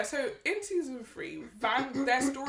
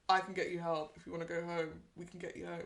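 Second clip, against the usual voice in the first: soft pleading; 3 semitones lower, 7 dB quieter than usual. Retold or imitated. Friend pleading gently.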